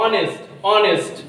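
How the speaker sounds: অনেস্ট opening on an o sound; pronunciation demo. Shown as a demonstration. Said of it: "ওর উচ্চারণটা হচ্ছে".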